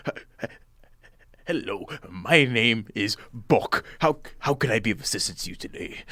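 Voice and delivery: a nervous little host trips over his greeting; timid greeter fumbling his introduction; nervous stammer. Acted. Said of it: "he kind of is shaking a little bit".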